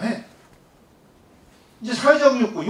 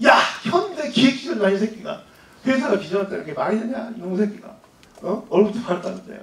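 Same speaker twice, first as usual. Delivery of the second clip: retold drunken outburst. Drunk father venting about his son's job, mock outrage. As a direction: imitate a ranting drunk, then ease off. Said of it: "막 난리 났어요. 술이 취해가지고".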